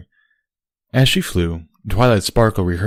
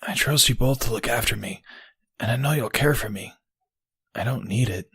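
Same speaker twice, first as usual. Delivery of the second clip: hushed, soft and higher; soft whisper-like; 4 semitones higher, 6 dB quieter than usual. Acted. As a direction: speak gently, barely above a murmur. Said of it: "Bucky whispered softly".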